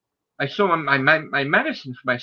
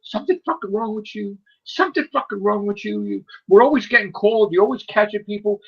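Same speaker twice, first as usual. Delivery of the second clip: higher-pitched retold scolding, only partly raised; mock screaming; 6 semitones higher than usual. Police lady fed up with repeat call-outs, mock screaming. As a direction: imitate an exasperated scream without full volume. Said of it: "the police lady was screaming".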